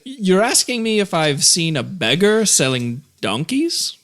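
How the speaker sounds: lightly hammed-up rich man's posh accent; offended posh gentleman, accent turned way up. Specialist sniffs at the adventurer in a hammed-up posh accent. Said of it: "turned the accent up to a hundred".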